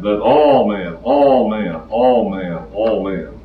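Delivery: all pressed hard each time, fading; repeated stress on all. Retold or imitated. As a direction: hammer the word all, mimicking their insistence. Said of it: "keep emphasizing that".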